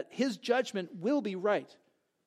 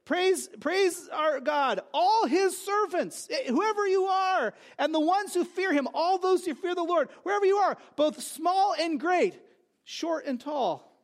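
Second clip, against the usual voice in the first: rousing proclamation; 7 semitones higher than usual. Acted. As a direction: proclaim it like a herald from the throne. Proclaiming the call to praise.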